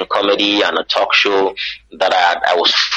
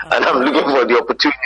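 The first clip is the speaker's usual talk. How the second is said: quick, higher American English; American accent; 4 semitones higher, faster than usual. Acted. Nigerian switching accent to be understood abroad, American accent. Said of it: "so you have to laugh".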